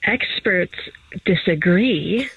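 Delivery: hushed, slow nature documentary narrator; lightly voiced wildlife narrator, measured pace; David Attenborough. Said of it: "why are you talking like that?".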